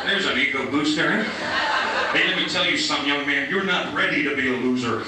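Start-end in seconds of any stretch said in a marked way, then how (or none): 1.2-5.0 mock stern manager. Manager scolding the kid.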